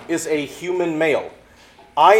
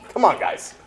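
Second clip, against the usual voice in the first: louder, higher, laughing mock frustration; laughing exasperation; 5 semitones higher, 5 dB louder than usual. Jesus to the Jews, laughing in mock exasperation. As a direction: plead with them through a laugh, exasperated. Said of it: "It's like".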